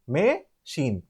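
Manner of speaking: "machine" in two separated syllables, may and sheen; jaw-drop syllable demo. Shown as a demonstration. Teacher pointing out written syllables, "machine" said in two beats. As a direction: pull "machine" apart at the syllable break. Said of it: "pronounce it by jaw drop method".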